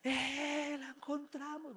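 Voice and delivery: high, loud cry of joy; joyful shout. Retold or imitated. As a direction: shout like workers finding the camera. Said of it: "empiezan a gritar de felicidad".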